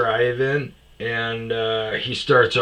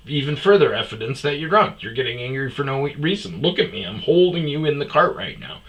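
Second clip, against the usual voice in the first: exasperated; 4 semitones higher, faster than usual. Retold or imitated. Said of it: "I go".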